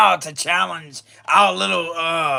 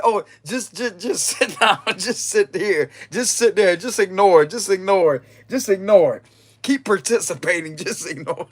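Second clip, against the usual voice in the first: sing-song mocking "just ignore it"; lightly singing the order to shush, amused. Mocking the control voice.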